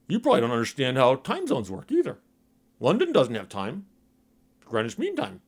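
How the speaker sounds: dopey smug lecturing voice; dumb guy voice. Retold or imitated. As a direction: sound like a clueless know-it-all. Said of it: "That's my dumb guy voice".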